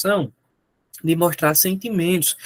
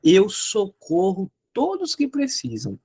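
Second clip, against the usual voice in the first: slow example sentence. Shown as a demonstration. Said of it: "dizer assim".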